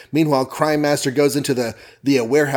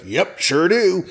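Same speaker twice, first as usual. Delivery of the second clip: Jonah; 5 semitones higher, slower than usual. Retold or imitated. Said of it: "Jonah's like".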